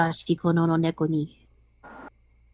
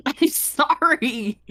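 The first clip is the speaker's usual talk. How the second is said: laughing apology; 7 semitones higher, much slower than usual. Real, not acted. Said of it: "Sorry if I'm coughing".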